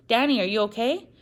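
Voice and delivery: high anxious question; worried call. Acted. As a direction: call up in alarm. Wife lurches on stairs.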